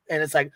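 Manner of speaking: mock wheezing gasps; imitated wheezing snore. Woman imitating how her friend wheezes in her sleep, mock wheezing. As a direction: gasp and wheeze like someone asleep. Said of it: "she's sitting there going".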